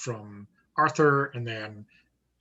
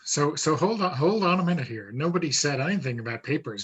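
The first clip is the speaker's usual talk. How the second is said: suspicious cop; 3 semitones higher, 4 dB louder, faster than usual. Acted.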